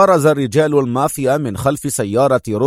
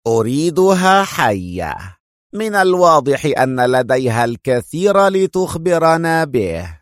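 lightly voiced mafia boss; 3 semitones higher than usual. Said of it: "هتف صوت مألوف".

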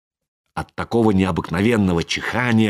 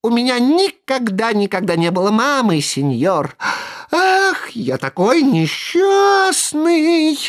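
piercing wail; 12 semitones higher than usual. A narrator's reading. Buratino wails piercingly about having no mother. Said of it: "закричал так пронзительно".

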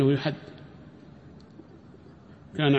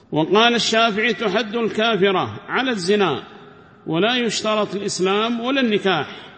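higher, louder formal reading of the book; reading the text aloud; 6 semitones higher, 4 dB louder than usual. Acted. Teacher reads the commentary to his class, formal reading voice. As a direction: recite the scholar's words like a text read to students.

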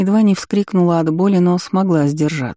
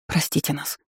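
much softer, hushed apology; barely audible whisper; 8 dB quieter than usual. A narrator's reading. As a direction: whisper to the goddess, barely there. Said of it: "прошептала едва слышно".

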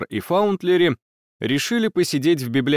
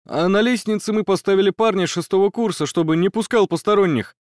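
agitated student; 5 semitones higher than usual. Acted. Student reporting, still agitated.

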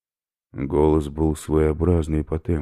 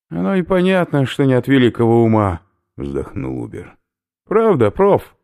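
loud, higher mocking jab; teasing; 10 semitones higher, 7 dB louder than usual. Oberführer mocks Yura and teases professor, loud jab. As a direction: rib the professor.

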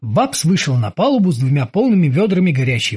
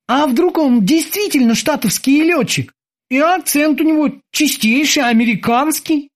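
high-pitched tentative wondering; doubting boatswain; 10 semitones higher than usual. A narrator's reading. Kiki suggests the prisoner may be American, doubting. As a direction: wonder aloud in a raised character voice.

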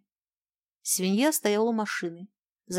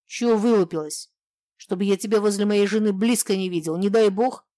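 loud, hostile threat; bully her with a loud warning; husband loudly threatening the young woman; threatening snarl; 2 semitones higher, 6 dB louder than usual. Acted.

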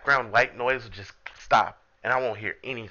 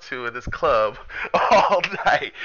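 half-laughing, higher pickup line; 4 semitones higher, 5 dB louder than usual. Shown as a demonstration. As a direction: deliver the line while cracking up. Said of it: "you say".

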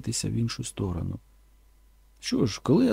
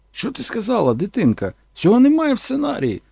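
higher, louder protest; indignant director; 9 semitones higher, 4 dB louder than usual. Retold or imitated. Director objecting the line isn't in the script, higher indignant. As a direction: scold her for going off script. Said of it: "підвівся і сказав".

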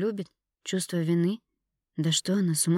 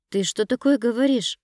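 higher and louder, choked up; strangled voice; 6 semitones higher, 6 dB louder than usual. A narrator's reading. Dina reeling from the news, voice strangled. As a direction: force it out through a tight throat. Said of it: "Голос стал совсем сдавленным".

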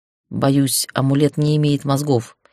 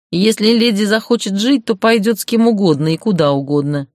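indifferent; 5 semitones higher than usual. Acted. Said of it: "равнодушно ответствовала фигура".

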